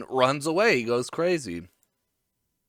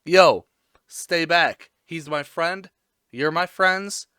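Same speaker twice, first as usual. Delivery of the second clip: raised retold warning from a talking dog; lightly voiced guard dog; 4 semitones higher, 7 dB louder, slower than usual. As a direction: warn the crowd off, a little higher. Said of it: "he's barking at the citizens".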